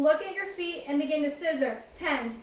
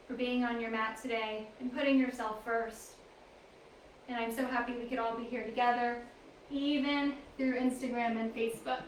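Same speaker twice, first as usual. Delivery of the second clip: slightly hushed, even yoga-teacher voice; gentle reflective affirmation; 3 semitones lower, 4 dB quieter than usual. Real, not acted. Teacher thanking class for showing up, gently reflective. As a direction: settle into quiet, sincere gratitude.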